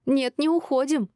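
slow, high defiant refusal; drawn-out, indignant contradiction; worked up. A narrator's reading. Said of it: "разошлась Шинар".

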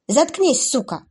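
high, loud furious outburst; snapping in rage. Acted. Abby breaking down at the taunting demoness, furious. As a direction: lose control and lash out. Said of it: "сорвалась девушка".

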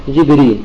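“جبريل” said as Jibrīl, with i after jim and no hamza; kasra on jim and ra. Shown as a demonstration. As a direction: pronounce “جبريل” with short i, then long ī. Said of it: "بكسر الجيم والراء وحذف الهمزة".

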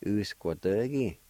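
"U-s-kwa-de-gi" as one flowing word; natural pronunciation. Shown as a demonstration. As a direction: say "U-s-kwa-de-gi" smoothly. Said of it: "like this".

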